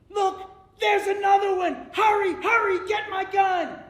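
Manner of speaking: high, loud panicked shout; farmer screaming. Acted. Farmer sees a second coyote, screaming high and loud. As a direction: scream for the gun. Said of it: "the farmer screamed".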